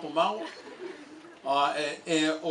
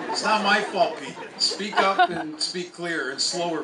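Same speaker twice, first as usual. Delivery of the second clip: exasperated plea; 3 semitones higher, 7 dB louder than usual. Retold or imitated. Telling Pete to speak clearly.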